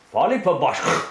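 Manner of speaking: a light imitation of a creature's closing call; imitated creature utterance. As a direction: mimic the creature's sign-off sound, only lightly voiced. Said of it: "they'll say the utterance".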